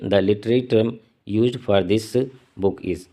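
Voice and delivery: slow, careful dictation pace; slow question reading. Acted. Teacher reading a quiz question to students, slow and measured. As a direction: read the exam question slowly, word by word. Reads exam question aloud slowly.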